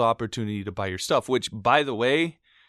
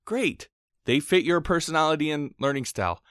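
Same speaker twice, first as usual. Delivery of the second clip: sarcastic; 5 semitones higher than usual. Real, not acted. Mock approval of other sites.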